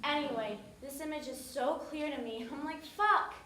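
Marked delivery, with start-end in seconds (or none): 2.8-3.3 frustrated curse. Retold or imitated. Frustrated outburst at lost phone.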